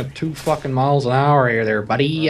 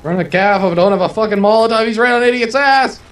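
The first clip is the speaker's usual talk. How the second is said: urgent excitement; 5 semitones higher, 3 dB louder than usual. Real, not acted. Tank chasing a teammate.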